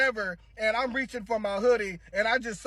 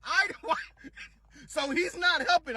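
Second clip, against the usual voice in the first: ordinary delivery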